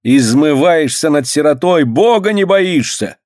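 high, wailing reproach; lamenting. A narrator's reading. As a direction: lament at him. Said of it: "причитают они".

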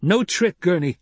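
high, pained denial; deep sadness. A narrator's reading. Paul sadly assures Gurney there is no trick, sorrowful. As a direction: answer with sorrow in the voice. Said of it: "such a note of terrible sadness".

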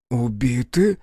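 a shocked little gasp of a question. A narrator's reading. Mayor gasps hearing of the monastery killings. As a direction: breathe the word out in shock. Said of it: "ахнул бургомистр".

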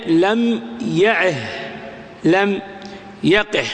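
"لم يعه، لم يقه" slow, each ending in h; ha of silence. Shown as a demonstration. Teacher showing two-letter verbs paused, final h. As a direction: finish "يعه" and "يقه" on breathed h. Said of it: "الوقوف عليه بها السكت".

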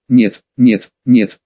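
deep, loud anguished cry; desperate no. Acted. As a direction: cry out in despair. Hero cries out, knife to throat.

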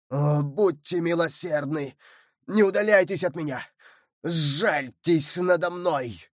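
mild pleading cry; desperate plea. Acted. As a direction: beg them not to row away. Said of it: "кричал молодой человек".

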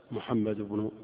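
"محمد بن" run together, no glottal stop before the b-n word; connected hamzat wasl. Shown as a demonstration. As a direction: link "محمد بن" as muhammadu-bnu, dropping the initial i. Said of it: "وفي الدرج لا تنطق".

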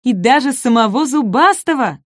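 small dinosaur's excited boast; proud exclamation. A narrator's reading. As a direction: top your news with pride. Shishka adds the amazing detail.

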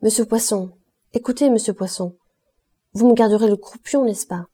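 réclame en insistant; avec insistance. Acted. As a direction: relance le sergent pour avoir le croupion. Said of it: "avec insistance". (Clémence insistante)

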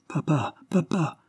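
slow, high, pleading call; distraught cry. Acted. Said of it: "s'écria Maria".

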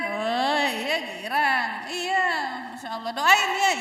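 delighted parent. Retold or imitated.

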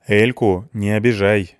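slow, firm warning; stern, deliberate caution. Acted. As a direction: lay down the law to him. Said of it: "строго сказал мне Петрович".

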